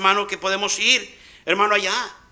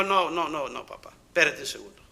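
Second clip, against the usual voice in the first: mock backpedal; 7 semitones lower, 10 dB quieter than usual. God voiced mocking Moisés.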